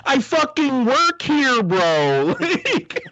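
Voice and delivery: a worker losing patience with a thief, half laughing; mock exasperated employee. Employee tells a thief to steal later, mock exasperated. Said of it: "You're like".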